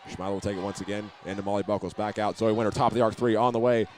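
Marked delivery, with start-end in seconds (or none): 2.4-3.9 excited call. Real, not acted. Three-point attempt in flight.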